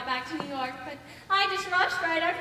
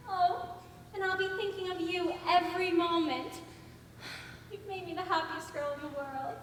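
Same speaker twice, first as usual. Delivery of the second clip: tender love talk; 2 semitones lower, 9 dB quieter than usual. Acted. Love talk to fiancé by phone.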